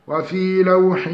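slow melodic tajweed chant; Quranic recitation. Shown as a demonstration. Tajweed teacher reciting an example verse slowly.

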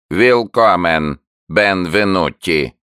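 slow, creaky animal voice; creaking newt. A narrator's reading. Newt greeting the visitors, slow creaky voice. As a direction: grind the words out like a creature.

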